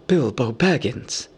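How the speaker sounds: slow, measured address; wondering Elven King. A narrator's reading. Elven King honors Bilbo, wondering. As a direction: pronounce the name with regal gravity.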